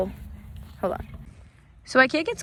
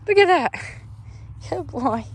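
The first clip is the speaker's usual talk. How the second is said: squealing delight; 7 semitones higher than usual. Real, not acted. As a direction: squeal "Look at that" up high at the cow. Brushing cow, repeats phrase.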